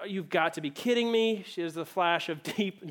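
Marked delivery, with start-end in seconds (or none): 0.1-1.4 dismayed disbelief. Retold or imitated. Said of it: "to her dismay and is like".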